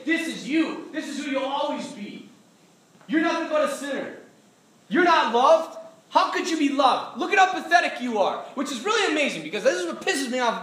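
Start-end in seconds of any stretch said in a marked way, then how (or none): 0.0-8.4 accusing devil. Retold or imitated. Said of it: "and the devil's saying".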